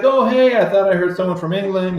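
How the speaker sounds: high, breezy friendly greeting; super friendly. Retold or imitated. Singer drops into the band's lounge, super friendly. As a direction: greet them in a lifted, chatty voice. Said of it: "super friendly".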